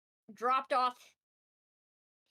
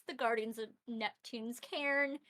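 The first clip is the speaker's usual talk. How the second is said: storyteller voice. Acted. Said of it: "storyteller voice".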